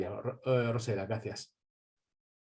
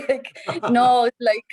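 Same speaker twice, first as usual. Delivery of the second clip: high giggling through the words; giggly laughing reply; 11 semitones higher, 6 dB louder, slower than usual. Real, not acted. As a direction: laugh it off, embarrassed.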